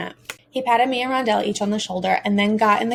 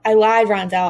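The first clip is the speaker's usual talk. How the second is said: louder, pushed-out confession; a raised cry of confession; shouted; 5 dB louder than usual. Acted. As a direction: blurt it out louder. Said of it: "I shouted".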